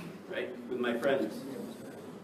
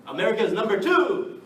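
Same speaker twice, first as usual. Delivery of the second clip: laughing; 7 semitones higher, 7 dB louder than usual. Real, not acted. Laughs at the US ranking.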